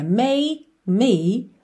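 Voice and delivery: "make me" slow, "make" closed on k; no final E. Shown as a demonstration. Teacher demonstrates for learners, silent final E. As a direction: say "make me" with no vowel after the k. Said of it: "Sem o som do E".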